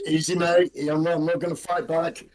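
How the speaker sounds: gruff orc, calm and placating; a brute trying to keep the peace. Acted. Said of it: "The orc says".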